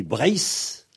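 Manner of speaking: "Brace" with a drawn-out hard s; slow "Brace", hissed at the end; final Z as S. Shown as a demonstration. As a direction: say "Brace" ending on voiceless s. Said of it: "le Z à la fin se prononce S".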